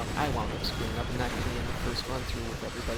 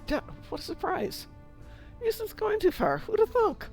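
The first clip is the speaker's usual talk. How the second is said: sarcastic. Acted. Teasing a friend's ship names.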